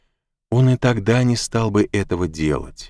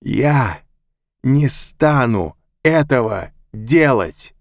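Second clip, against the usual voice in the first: slow, loud defiant shout; furious shouted refusal; 4 semitones higher, 4 dB louder, much slower than usual. A narrator's reading. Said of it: "прокричал Мак".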